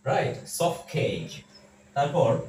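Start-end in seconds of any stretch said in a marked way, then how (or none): 0.5-1.4 "সফট" said "সফ", t dropped before "কেক"; silent t. Shown as a demonstration. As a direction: run "সফট কেক" together as "সফকেক". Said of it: "আমরা বলবো সফট কেক". ("সফট" এর ট বাদ দিয়ে "সফ কেক")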